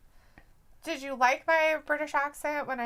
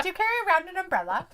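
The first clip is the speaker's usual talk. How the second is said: teasing laugh; 4 semitones higher, much faster than usual. Real, not acted. Teasing British co-host.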